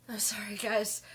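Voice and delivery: whispered apology, close to tears; tearful whisper. Real, not acted. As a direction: barely breathe it, holding back tears. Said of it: "doing my best not to cry".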